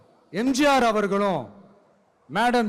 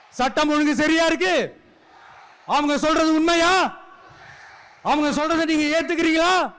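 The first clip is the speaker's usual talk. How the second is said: raised, higher rousing call to the crowd; 5 semitones higher than usual. Real, not acted. Rally speaker to the crowd, rousing raised call. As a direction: fire the question out to the rally.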